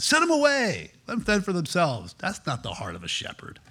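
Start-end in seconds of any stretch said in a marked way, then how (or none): 0.0-2.1 high, brushing-off disciple voice; lightly hammed apostle; mock dismissive apostle. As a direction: shoo the crowd away impatiently. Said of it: "some of the great apostles said".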